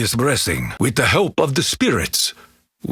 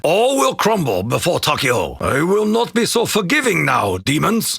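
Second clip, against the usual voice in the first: raised, hard-edged warning; menacing battle threat; 5 semitones higher than usual. Acted. Warrior Takeo warns the demons he will show no mercy, menacing. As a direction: throw the threat straight at the enemy.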